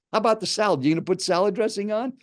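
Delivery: mildly aggressive quoted questioning. Retold or imitated. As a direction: imitate a pushy food critic. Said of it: "kind of an aggressive tone".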